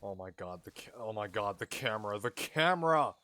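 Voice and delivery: building panic, ending in a yelp; rising alarm, blurted out fast; frantic. Real, not acted. Panics as game camera spots him.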